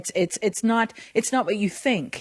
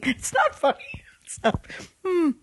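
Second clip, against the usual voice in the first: whisper; 10 semitones higher than usual. Real, not acted. Catching herself laughing at torture.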